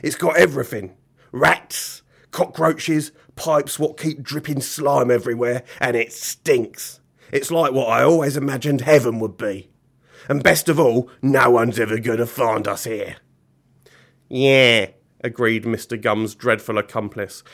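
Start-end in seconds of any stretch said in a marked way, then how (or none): 0.0-13.2 grubby villain savouring each item; lightly voiced gleeful villain. Mister Gum bragging about his hideout, with villainous relish. 14.3-14.9 louder, drawn-out agreement; a hint of a scrawny butcher's voice; villain's accomplice. Butcher accomplice agreeing with Mister Gum, in character.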